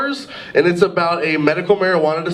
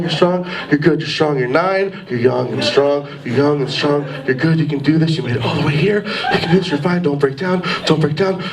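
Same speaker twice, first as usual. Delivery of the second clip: mock inner monologue; 3 semitones lower, faster than usual. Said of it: "go into this, like, inner monologue".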